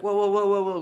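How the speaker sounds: high, loud string of whoas; mock alarm. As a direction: act out backing someone off, startled. Alarmed at razor threat.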